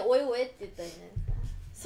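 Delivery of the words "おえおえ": loud mock gagging noise; fake retching. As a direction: gag out loud on purpose. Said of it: "でも演技で".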